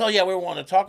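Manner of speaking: lightly voiced guy who wants to chat; mocked patron. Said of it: "He goes".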